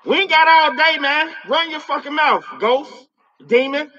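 yelling at a spirit to talk; impatient yell. Real, not acted. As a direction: bark it at the ghost to hurry. Demanding the spirit speak.

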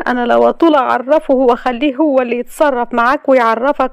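high, scornful retort; scornful young woman. A narrator's reading. Layla scornfully answering Ragheb, high. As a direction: spit back contempt.

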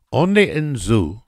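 high, loud, matter-of-fact Russian woman; emphatic hostess reply. A narrator's reading.

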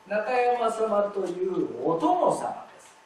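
中山様というお殿様です read slowly as one linked phrase; slow connected reading. Shown as a demonstration. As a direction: draw 中山様というお殿様です out in one breath. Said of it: "このつながりがはっきりしないと".

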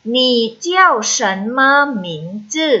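measured syllables for learners to repeat; read-after-me model. Shown as a demonstration. Teacher leads students reading Chinese after her, measured model reading. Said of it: "พูดตามค่ะ".

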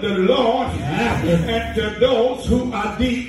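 drawn-out, chanted sermon cadence with gasps between phrases; rhythmic Black church whooping; whooped preaching. Acted. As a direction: preach it half-sung, punching out a hard breath after each phrase. Whooped sermon close over music.

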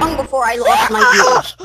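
hammed-up crying wail; mock crying. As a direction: wail it like fake tears.

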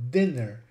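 dinner with a short I, as in "din"; dinner, short first syllable vowel. Shown as a demonstration. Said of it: "they are pronounced dinner".

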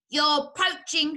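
slow, high, loud accusation; shrieking. A narrator's reading. Rat catching others at his cider, shrieking. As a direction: drag out an outraged shriek. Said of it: "shrieked Rat".

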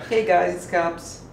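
slow, lightly voiced Caps greeting; imitating Caps. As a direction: drawl it like Caps. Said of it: "That's exactly what Caps does".

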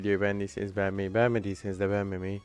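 fast upbeat sign-off read; quick, cheery channel outro; youtuber outro. Real, not acted. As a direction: rattle off the like-and-subscribe.

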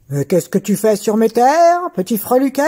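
loud, menacing giant voice; a giant scolding a tiny man; gruff giant. Acted. Giant questions tailor.

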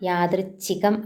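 യാദൃച്ഛികം said slowly with careful ച്ഛ; slow model of യാദൃച്ഛികം; correct form. Shown as a demonstration. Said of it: "ആണ്".

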